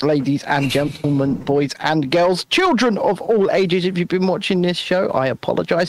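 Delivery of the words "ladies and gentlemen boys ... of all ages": slow, grand ringmaster call. Acted. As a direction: announce it like a circus ringmaster. Showman sign-off address.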